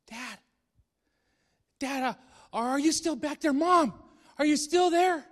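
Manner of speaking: put-on a child calling for Dad and Mom from the bed; slight voice. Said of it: "a very slight voice say".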